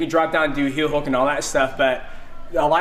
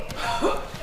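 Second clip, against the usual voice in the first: demo gasp; 6 dB quieter than usual. Shown as a demonstration. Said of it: "They'll go".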